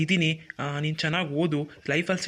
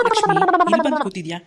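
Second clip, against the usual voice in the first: calling out; 12 semitones higher, 7 dB louder than usual. Acted. Husband finds wife, calls out.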